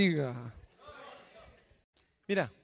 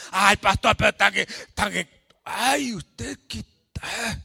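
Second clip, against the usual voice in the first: imitating a complaining church sister; mock whiny sister; 2 semitones higher, 9 dB louder than usual. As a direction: whine like a sister caught out. Hermana imitada quejándose al pastor. (hermana quejumbrosa imitada)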